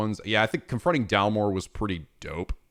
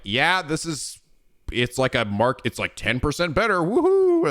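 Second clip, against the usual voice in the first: sarcastic cheer; 6 semitones higher than usual. Pretend. Mock lukewarm fan reaction.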